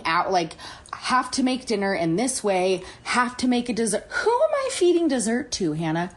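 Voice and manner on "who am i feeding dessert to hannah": high, disbelieving question; incredulous. Real, not acted. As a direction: ask it in total disbelief. Incredulous rant at herself.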